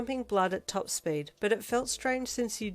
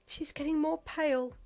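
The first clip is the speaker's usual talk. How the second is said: fretting; 9 semitones higher than usual. A narrator's reading. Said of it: "Momo fretted".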